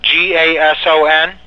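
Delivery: letter by letter, asking; spelling it out. Real, not acted. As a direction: spell each letter, checking. Reading back the spelling.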